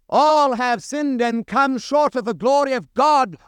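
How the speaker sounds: rattled off quickly as it is usually read; a careless quick reading of the verse; read hurriedly. Shown as a demonstration. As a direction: skim the verse, running the words together. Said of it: "we read rather hurriedly".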